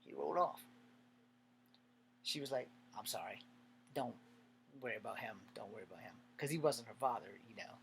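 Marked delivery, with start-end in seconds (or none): 3.0-6.1 lower, softer retold apology; soft reassurance. Girl reassures him after the cousin's warning, softly apologetic. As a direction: quietly imitate a girl soothing him.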